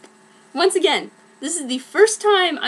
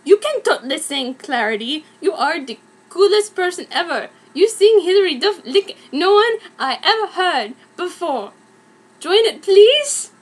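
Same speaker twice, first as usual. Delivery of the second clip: fast pleading gush; 4 semitones higher, 4 dB louder, faster than usual. Acted. Mary pleads excitedly in fic.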